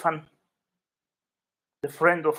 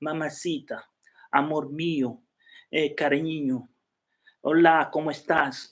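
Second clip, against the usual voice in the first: sexy Spanish. Shown as a demonstration. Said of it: "is very sexy language".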